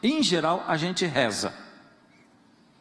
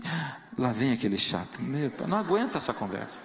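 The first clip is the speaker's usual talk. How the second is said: God voiced, annoyed; 3 semitones higher than usual. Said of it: "diz assim".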